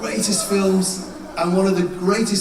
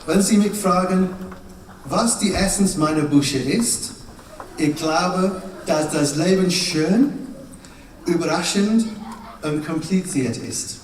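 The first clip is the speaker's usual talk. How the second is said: pretend German. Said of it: "I'm going to pretend to speak German".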